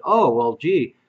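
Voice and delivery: mock media hysteria. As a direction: parody the pundits' indignant question. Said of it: "the media went out there and said".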